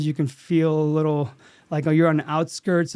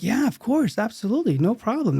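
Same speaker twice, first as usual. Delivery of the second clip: higher-pitched, lilting imitation of willing crew; easygoing agreement; 5 semitones higher than usual. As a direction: agree readily, as if it's no trouble. Retelling crew's willing reply to request.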